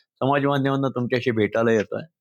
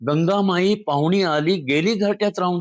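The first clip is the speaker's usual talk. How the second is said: poem recitation; 4 semitones higher than usual. Shown as a demonstration. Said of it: "ते मी थोडंसं तुम्हाला कवितेतनं सांगतो".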